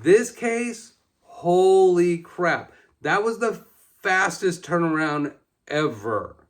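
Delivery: slow, drawn-out, loud amazement; amazed. Real, not acted. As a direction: stretch it out in awe. Amazed at fast recovery.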